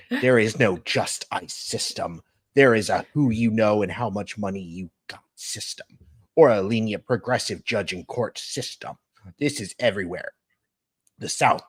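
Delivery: lightly voiced character read; steady read-out with a hint of impression; lightly put-on voice, phrase by phrase; a singer's voice. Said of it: "The Becky Hill voice is the best".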